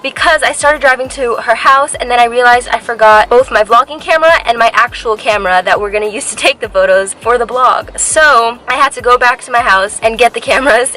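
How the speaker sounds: breathless and a little loud; out of breath. Real, not acted. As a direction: talk while catching breath. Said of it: "I'm kind of out of breath".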